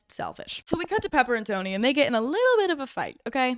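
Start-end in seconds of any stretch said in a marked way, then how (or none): 0.1-0.6 whispered aside. Real, not acted. Deadpan aside on bald men.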